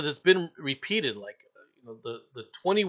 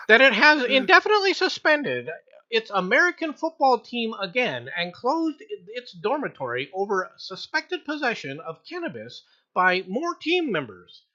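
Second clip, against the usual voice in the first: high-pitched read; 5 semitones higher, 3 dB louder than usual. Shown as a demonstration. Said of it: "say it in a high-pitched voice".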